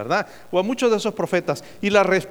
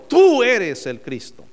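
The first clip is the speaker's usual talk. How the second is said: proclaimed confession; 5 semitones higher, 6 dB louder, slower than usual. Acted. Preacher repeats Peter's confession.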